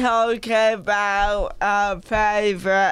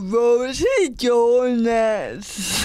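put-on Welsh accent; slower than usual. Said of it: "a Welsh accent".

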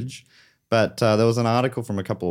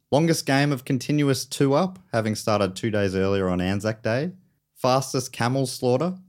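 deadpan; 2 semitones higher than usual. Acted. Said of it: "yeah, no emotion".

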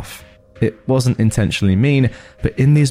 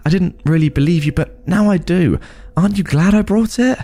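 high, insistent self-justification; urgent, put-upon defense; defensive protest; 10 semitones higher than usual. Acted. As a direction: argue back, pitch raised. Defensive argument about the gun.

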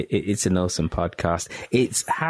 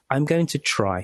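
"try" lifted higher and leaned on; stress on try; 5 semitones higher than usual. Shown as a demonstration. Host promising listeners, leaning on "try". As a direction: hit the word "try" hard. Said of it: "stress on the word try".

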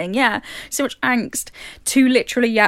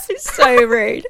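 laughing; much slower than usual. Real, not acted. Laughing at Twilight scene.

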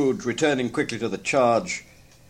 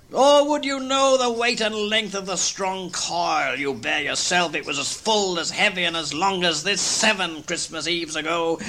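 mournful ghost; 7 semitones higher than usual. Acted. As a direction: drag the words like chains. Ghost describes chain.

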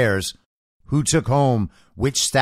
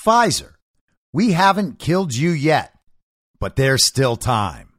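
mock ad slogan; 3 semitones higher than usual. Parody of a sponsor slogan.

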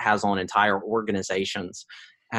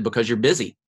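whispered. Retold or imitated. Doctor's quiet verdict.

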